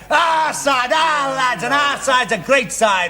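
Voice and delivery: champion the home team with pride; proud exclaim. Acted.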